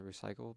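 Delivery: recyclable said as re-cy-cle-able; extra syllable. Acted. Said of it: "Sorry for putting an extra syllable on recyclable".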